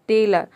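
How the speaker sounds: टेलर as "tay-luh"; silent final r in टेलर. Shown as a demonstration. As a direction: say टेलर with the closing R left nearly silent. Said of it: "आर को silent रख सकते हैं".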